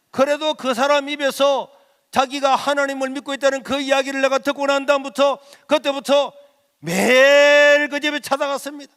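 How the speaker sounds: building fervent preacher's cry; preaching at full force. Acted. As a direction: drive it home from the pulpit. Testimony climax, full preaching.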